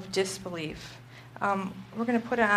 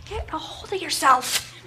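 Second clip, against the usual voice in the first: husband's line retold through a laugh, a little higher; laughing quote; 5 semitones higher than usual. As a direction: giggle through his stern words. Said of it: "And he's like".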